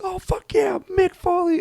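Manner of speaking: squeaky-high imitation of a fan; excited fan cheer. Somebody in the front row joins in, excited cheer.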